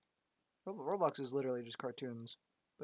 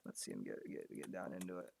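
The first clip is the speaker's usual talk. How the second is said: much lower, deep growly voice; 8 semitones lower, 9 dB quieter than usual. Pretend. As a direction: drop way down into a deep voice. Voicing the posed lieutenant.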